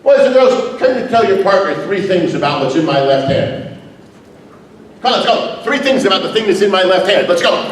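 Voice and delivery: put-on rally the kids like a TV host; kids show host. Energetic teacher addressing class.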